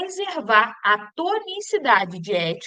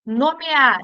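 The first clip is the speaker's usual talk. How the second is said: "Nomear" with the final AR stressed and louder; stress on final syllable; 4 dB louder than usual. Shown as a demonstration. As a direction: lean on the last syllable of "Nomear". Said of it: "sílaba tônica é o a". ("Nomear" com o AR final tônico)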